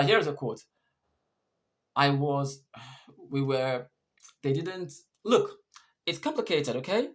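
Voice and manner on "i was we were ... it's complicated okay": halting hesitation with broken-off phrases; hesitant. Shown as a demonstration. English teacher reads an example of hesitation in dialogue, hesitant. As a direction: trail off after each start, then give up with 'look'. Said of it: "This shows hesitation".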